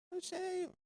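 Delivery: mock-shocked squeal; shocked exclamation. Real, not acted. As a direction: cry out in disbelief.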